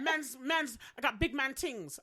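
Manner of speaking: hamming up London street talk; London road-man. Retold or imitated. Friend mimics a London road-man. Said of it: "I love when they talk like that".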